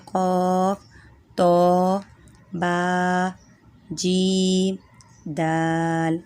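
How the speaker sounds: قاف تو با جیم دال each with a light bounce; slow letter listing; qalqala letters. Shown as a demonstration. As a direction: recite the letters clearly. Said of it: "حروف قلقلہ پانچ ہیں".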